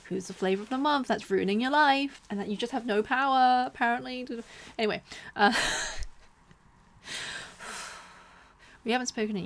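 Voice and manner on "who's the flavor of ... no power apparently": mock friend. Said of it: "It's like".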